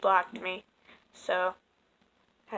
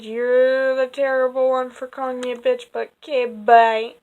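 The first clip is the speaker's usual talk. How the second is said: louder, pointed retort, then a curt bye; snapping back at a man who called her a bitch, indignant and louder; 3 semitones higher, 7 dB louder than usual. Retold or imitated. Reading her retort to an insult.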